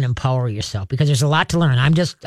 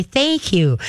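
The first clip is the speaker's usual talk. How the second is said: calm, even praise; 2 semitones higher than usual. Shown as a demonstration. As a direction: praise the dog without excitement. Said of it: "you very calmly say".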